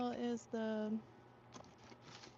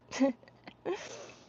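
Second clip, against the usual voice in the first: zombie groan; 3 semitones higher, 5 dB louder than usual. Pretend. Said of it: "Random zombie noise".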